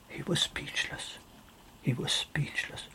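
whispered, awed narration; hushed whisper. A narrator's reading. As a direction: drop to a breathless whisper. Narrator hushes at the eerie silence.

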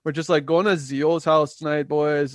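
mock Italian-Canadian accent. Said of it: "Where are you getting this accent from?".

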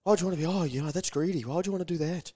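lightly mock a sneering naysayer; a hint of a disapproving voice; judgemental critic. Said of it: "Someone will have a crack at you".

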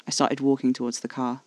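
plain reading voice

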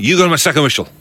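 lightly imitated Scottish referee; Scottish accent. Shown as a demonstration. Showing the co-host the referee's line, Scottish accent. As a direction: give the referee's catchphrase in Scottish. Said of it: "can you do a Scottish accent?".

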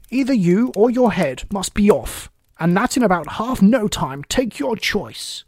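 loud, high, imperious Queen; storming royal command; shouted threat. A narrator's reading. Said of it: "shouted the Queen".

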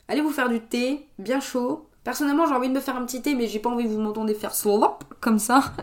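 blocked-nose nasal talk. Real, not acted. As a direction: speak through a blocked nose. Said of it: "je parle du nez".

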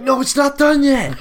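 high, loud, slow mocking officer voice with a laugh. Mocking the airport officer who snapped at him, high loud mock voice. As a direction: ham up the rude officer, laughing through it.

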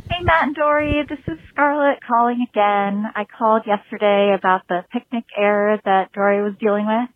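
talking muffled behind a face mask; muffled through a mask. Real, not acted. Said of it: "sorry if I sound muffled. I'm wearing a mask".

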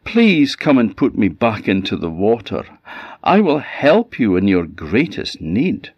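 mild plea from the river bank; the salmon begging to be put back; pleading salmon. Acted. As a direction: ask for help, still urgent. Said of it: "it cried out to the ash lad".

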